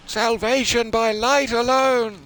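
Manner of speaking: high, slow echo of a spirit's decree; mock ghostly proclamation. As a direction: intone it like a solemn ghost. Mimicking the game's spirit voice.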